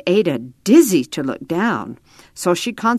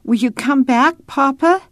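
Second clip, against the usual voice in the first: lightly voiced child, higher pitch; higher, hopeful question rising at the end; anxious child asking; 8 semitones higher than usual. A narrator's reading. Ada asks Papa if he will return, lightly voiced child.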